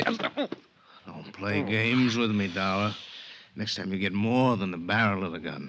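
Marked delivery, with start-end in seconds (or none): 0.0-2.9 deliberate slow warning; slow threat. Acted. Gunman cutting Johnny off, in a slow hard warning. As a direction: spell out each word as a threat.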